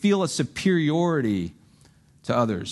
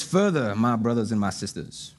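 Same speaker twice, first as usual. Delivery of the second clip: a lofty, stagey scripture voice; overly grand reading; 4 semitones lower than usual. Shown as a demonstration. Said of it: "Well, it probably didn't sound like that".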